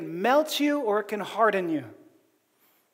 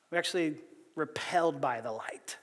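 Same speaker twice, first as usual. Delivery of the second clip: whisper; 7 semitones lower, 11 dB quieter than usual. Real, not acted. Sermon, dropping to a hush.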